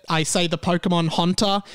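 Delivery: Haunter said as hawn-ter with an open ah vowel; his own pronunciation. Shown as a demonstration. Host demonstrating his disputed Haunter, hawn-ter. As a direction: give Haunter a broad hawn sound. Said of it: "That is how I would say that word".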